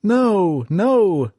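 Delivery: high, loud refusal; men yelling. A narrator's reading. Trapped men refuse the captain's order, loud high yells. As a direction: shout the captain down. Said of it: "men yelled".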